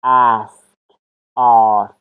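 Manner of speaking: "اسک" first short then "آسک" with long A; contrast pronunciation. Shown as a demonstration. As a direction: model both vowels of "اسک". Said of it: "ساوند آ و ساوند ا".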